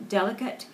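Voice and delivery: delicate with a strong first syllable; delicate, DEL punched, final T still sounded; stress on first syllable. Shown as a demonstration. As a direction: hit the DEL in delicate, keep the rest light. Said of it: "very strong accent on the first syllable".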